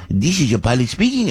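mock French pilot accent; thick French accent. Host mimicking the French pilot's announcement, French accent. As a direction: imitate a French pilot, lightly. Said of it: "with such a thick French accent".

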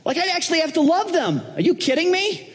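high, climbing disbelief; hammed-up indignant protest with stretched words; incredulous outrage. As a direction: balk at the order, voice shooting up. Donald balks at being a servant.

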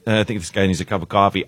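hushed quick code phrase. Retold or imitated. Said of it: "that last resort".

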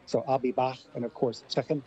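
final k softened toward sh in a Scouse accent; Scouse accent demo. Shown as a demonstration. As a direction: drop a light Scouse accent on these words. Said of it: "I liked that American Scouse accent there".

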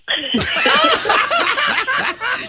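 long, high-pitched laugh; real burst of laughter. Real, not acted. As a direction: crack up at the punchline. Risa por el nombre del nieto. (carcajada larga y aguda)

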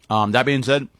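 talking with a mouth full of chicken; words round a bite of food. Real, not acted. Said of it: "I have, like, chicken in my mouth".

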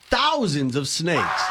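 laughing as he drags out "thousands of snakes"; slow, laughing near-shout on the reveal; laughing punchline. Real, not acted. Punchline of snake-house story.

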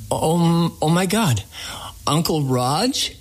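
stunned recognition. Retold or imitated. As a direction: recall the shock of seeing him again. Retold shocked recognition of uncle.

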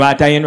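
"Italian" said as "Eye-talian"; brother-in-law's mispronunciation. Retold or imitated. Brother-in-law announcing a new restaurant, "Italian" as "Eye-talian". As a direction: open "Italian" with a long "eye", imitating a local. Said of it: "He's like".

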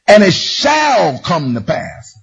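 slow, solemn "shall come to pass"; scripture reading. Acted. Preacher reads the verse to the congregation. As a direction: read it like a promise.

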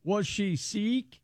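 slow deadpan pun on Sikh; pun on sick. Acted. Host landing the Sikh pun deadpan for the crew. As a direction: lean slowly on Sikh, dry and deadpan. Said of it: "very nice".

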